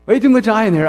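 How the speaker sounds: amused, rushed repeat; laughing. Real, not acted. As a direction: toss the line off through a laugh. Laughing repeat of the friend's line.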